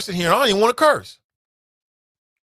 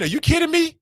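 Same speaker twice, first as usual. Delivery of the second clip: incredulous shout; 13 semitones higher than usual. Real, not acted. Reacting to tweet.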